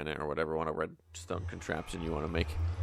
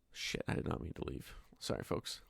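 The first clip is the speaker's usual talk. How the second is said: hushed oops; 3 semitones lower, 10 dB quieter than usual. Real, not acted. Accidentally left the game mid-recording.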